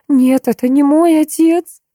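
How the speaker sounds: high, slow, tearful denial; tearful protest. A narrator's reading. Maya in tears refuses the undead father, tearful and high. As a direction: push the words out through tears. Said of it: "Слёзы рекой полились по её щекам".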